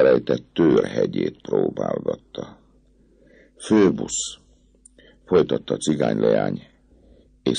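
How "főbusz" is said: the captain's name breathed in a whisper. A narrator's reading. Girl gently addresses captain.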